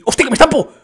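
high, loud cry before a crash; alarmed yell. Real, not acted. About to crash in game.

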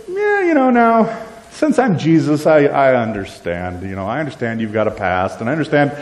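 a hint of a breezy, off-hand Jesus; mock casual Jesus. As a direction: shrug it off as if grace were no big deal. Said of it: "He doesn't say".

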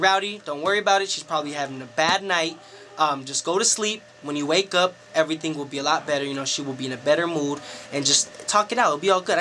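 lightly voiced low, quick soothing; mild reassurance. Assistant reassures him about the firing.

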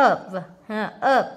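"up" said as "of", ending in a v sound. Shown as a demonstration. Teacher models "up" (of) for students, f as v. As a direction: voice the final f of "up" (of) as v. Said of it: "chữ phờ này đọc là vờ".

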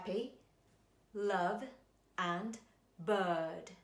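"happy", "love" and "bird" each given its own English vowel, with pauses between; contrasting vowels. Shown as a demonstration. Voice teacher demonstrating three English vowels for students to compare. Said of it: "音の明るさなどが違うのが聞こえますか".

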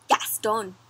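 hushed whisper; whispered name. Acted. Teacher presenting the different puppy, whispered. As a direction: breathe the name secretly.

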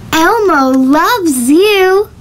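slow, drawn-out cartoon voice; Elmo voice. Vlogger doing an Elmo line for the cartoon filter, slow and cooing. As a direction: coo it like Elmo. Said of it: "Maybe I'm gonna try Elmo".

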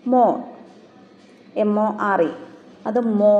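മോ said with a held long o; teacher modelling a long vowel; long o demo. Shown as a demonstration. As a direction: stretch the vowel in മോ. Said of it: "ഇങ്ങനെയാണ് phonetic ട്രാൻസ്ക്രിപ്ഷനിൽ എഴുതുക".

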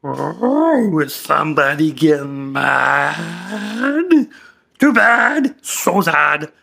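slow, sing-song teasing; mocking taunt. Patient to therapist, in a slow mocking taunt. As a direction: needle him, drawing it out.

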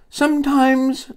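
high, drawn-out single word; strained answer. Acted. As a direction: answer from the floor, stretching it out. Hurt librarian answers from floor.

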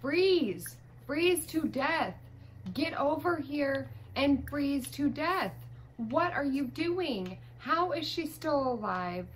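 frustrated gamer outburst; exasperated. Real, not acted. Ordering stubborn Sim to freeze.

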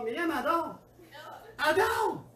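high laughing exclamation. Real, not acted. Preacher laughing while telling the congregation his story, laughing. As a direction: laugh it out, can't hold it in.

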